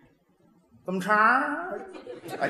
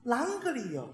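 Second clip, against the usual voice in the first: Sichuan accent demo; 10 dB quieter than usual. Shown as a demonstration. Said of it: "他得形容出来是".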